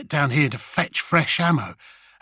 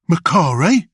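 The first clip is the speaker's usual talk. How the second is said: louder, strained asking through clenched teeth; frustrated question; 5 dB louder than usual. Acted. Bullets asking the grot, through gritted teeth. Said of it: "asked the orc through frustration gritted tusks".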